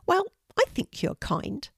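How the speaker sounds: high breathy whisper; whispered pigeon voice. A narrator's reading. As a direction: hush it like a small bird. Pigeon speaks.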